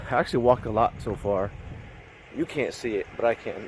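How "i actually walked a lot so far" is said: out of breath. Real, not acted. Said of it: "I'm all out of breath".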